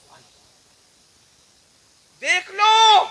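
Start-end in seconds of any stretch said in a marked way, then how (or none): 2.2-3.0 loud, high, slow fiery sermon delivery; full-force preaching. Acted. Preacher warning the gathering, booming loud and high. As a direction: thunder it out to the congregation.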